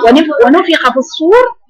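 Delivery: ونفخ في الصور drawn out slowly with a heavy ص; slow recitation. Shown as a demonstration. Teacher gives the verse with the rounded sad. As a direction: recite it slowly, Quran style. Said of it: "هناخدها مضمومة".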